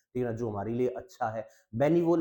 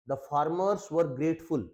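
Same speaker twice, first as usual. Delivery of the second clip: slow dictation; 3 semitones higher, much slower than usual. Shown as a demonstration. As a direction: read "the farmers were grateful" very slowly. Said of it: "teacher dictates example sentence".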